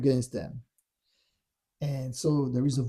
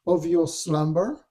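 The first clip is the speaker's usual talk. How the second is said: raised pitch, goading rhetorical questions; taunting; 6 semitones higher than usual. Retold or imitated. Dark voice mocking Yeshua's illusion, taunting. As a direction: imitate a tempter needling with lifted question endings. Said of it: "he's really taunting him".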